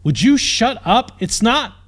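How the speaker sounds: shouting back at him; scream. A narrator's reading. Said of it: "the princess screamed".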